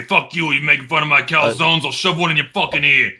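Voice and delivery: gruff mock Italian mobster; hammy thick Italian accent, mocking. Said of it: "real thick Italian accent".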